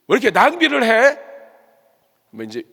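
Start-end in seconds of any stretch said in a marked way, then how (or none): 0.1-1.2 loud, high burst of indignation; envious reproach. Acted. Preacher voicing a jealous bystander scolding the waste, loud envious reproach. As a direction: throw it out as an outraged question. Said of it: "시기심도 있었을 것 같아요".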